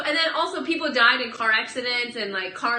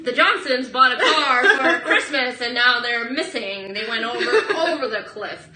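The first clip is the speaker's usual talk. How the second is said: laughing; 3 semitones higher, 7 dB louder than usual. Acted. Mock newsreel while laughing.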